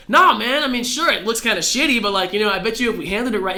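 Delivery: high-pitched, dismissive reassurance; breezy persuasion. Retold or imitated. Roger retold persuading Rayleigh.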